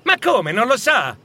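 put-on high, incredulous young lad; amazed boy's question; surprised youth. A narrator's reading. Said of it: "replicò il giovane sorpreso".

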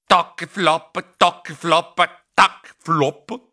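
steady toc-flop noise; imitated footsteps. A narrator's reading. Narrator wonders about the strange noise, imitated footsteps. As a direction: sound out the odd clunk and slap. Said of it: "si udiva quello strano rumore".

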